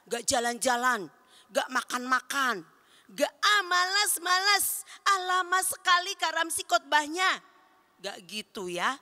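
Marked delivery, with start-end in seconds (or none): 3.4-7.5 higher, mock-whining kid complaining; whiny bored child. A child grumbling about Kak Ramsi's long sermon, mock whiny.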